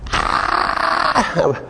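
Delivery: high mock scream held back from the mic; a little girl's shriek, not at full volume; imitated child's scream. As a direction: squeal out a high-pitched scream. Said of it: "Screaming as loud as she could".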